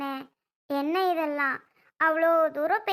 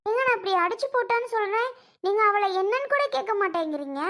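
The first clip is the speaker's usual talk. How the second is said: high-pitched, rising protest; indignant complaint; 5 semitones higher than usual. Acted. Sister complaining that he won't question her, indignant. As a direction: press the grievance in a raised pitch.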